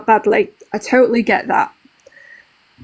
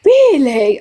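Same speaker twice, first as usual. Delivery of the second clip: mum's reproach; 3 semitones higher, 3 dB louder than usual. Retold or imitated. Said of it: "my mum will turn around to me".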